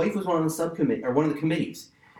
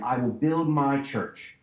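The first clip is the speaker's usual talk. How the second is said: "I will build my church" traag, met nadruk op "build"; slow, emphatic reading; slower than usual. Shown as a demonstration. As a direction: read it slowly, leaning on "build". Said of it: "so I read it again".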